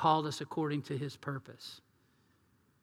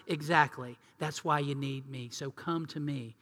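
gentle invitation; 3 semitones lower, 5 dB quieter than usual. Retold or imitated. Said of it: "God says".

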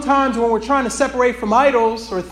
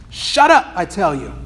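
impatient snarl; 5 dB louder than usual. Acted. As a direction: snap at the lizard to shut it up. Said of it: "with a snarl of impatience".

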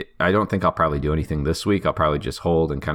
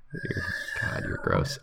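disgusted mutter; 12 semitones lower, 10 dB quieter than usual. Real, not acted. Reacting to a crude joke.

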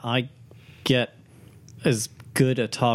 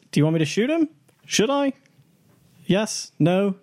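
urgent; 8 semitones higher than usual. Real, not acted. Urgent team question.

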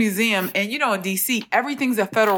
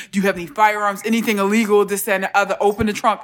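lightly voiced officer's demand; authoritative officer; faster than usual. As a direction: imitate an official issuing orders. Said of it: "in a real authoritative voice".

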